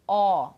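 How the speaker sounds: Ó said loud with lips pushed out round and wide; big rounded pout on Ó; exaggerated open Ó, lips far forward. Shown as a demonstration. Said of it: "Ó, bico grande".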